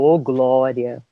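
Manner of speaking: slow, drawn-out glory cry; mock hallelujah. Girl thanking heaven for her ticket. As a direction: sing out praise in triumph. Triumphant praise after ticket.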